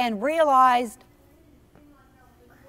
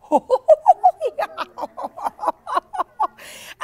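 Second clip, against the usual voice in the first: big laugh; 13 semitones higher, 4 dB louder than usual. Acted. Characters erupt into laughter.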